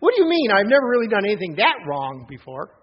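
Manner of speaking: a woman caught off guard, protesting loudly; quick indignant reply. Retold or imitated. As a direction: blurt it out, offended. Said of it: "which she said quickly".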